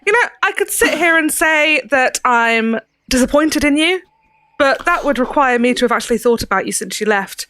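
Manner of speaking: put-on soft Cockney accent. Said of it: "A soft Cockney accent".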